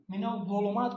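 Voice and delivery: "من الظلمات" with a thick, heavy dh sound; emphatic Arabic za. Shown as a demonstration. Teacher shows what nobody says in Urdu, heavy za. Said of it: "کوئی نہیں کہتا ہے".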